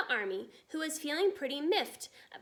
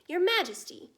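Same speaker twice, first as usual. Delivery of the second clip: louder, higher outburst to the Queen; furious cry; 6 semitones higher, 6 dB louder than usual. A narrator's reading. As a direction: burst out in a rage. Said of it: "he cried".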